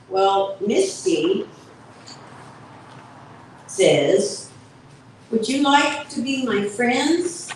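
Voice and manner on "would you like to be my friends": squeak. Acted. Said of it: "Misty squeaks".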